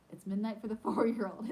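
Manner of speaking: laughing through the line. Real, not acted. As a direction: let a laugh break in mid-line.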